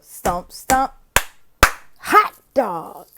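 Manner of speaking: chanted again, lighter hot dog; classroom cheer demo. Shown as a demonstration. Teacher repeating the class cheer, lighter chant. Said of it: "So that's it".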